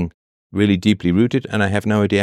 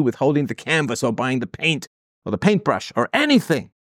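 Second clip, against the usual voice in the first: a touch of a scornful parent, pitched higher; mock parent voice; 3 semitones higher than usual. Therapist mocking the caller's parents, lightly higher mock parent. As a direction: sneer it like a dismissive parent. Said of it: "you would say".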